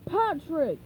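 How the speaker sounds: panicked crab; Mr. Krabs shout. Acted. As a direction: shout his name. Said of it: "he shouted".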